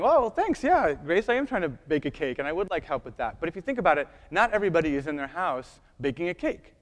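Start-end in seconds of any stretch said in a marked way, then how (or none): 0.0-3.4 starts high and bright with eagerness, then eases down; mock eager reply. User answering the kitchen voice Grace, mock eager. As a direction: gush your thanks to the talking kitchen. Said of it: "you're sitting there going".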